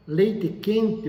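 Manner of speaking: Leite quente with a light São Paulo accent; São Paulo accent, lightly done; paulista accent. Shown as a demonstration. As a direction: mildly imitate a paulista saying Leite quente. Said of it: "o paulista fala".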